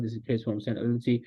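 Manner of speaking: slow, rehearsed intro; teacher showing how the intro flows, slowly; slow flowing demo. Shown as a demonstration. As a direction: run the memorised intro slowly. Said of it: "जैसे for example".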